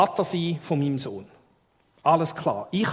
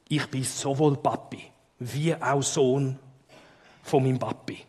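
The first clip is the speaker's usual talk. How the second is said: deep solemn voice; 3 semitones lower than usual. Shown as a demonstration. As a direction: say it as a grave secret. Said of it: "mit tiefer Stimme".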